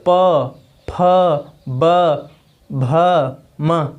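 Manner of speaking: प, फ, ब, भ, म each said alone with the lips; teacher demonstrating प फ ब भ म; demo of lip sounds. Shown as a demonstration. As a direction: sound out प फ ब भ म one by one. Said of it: "बोलिए आप लोग".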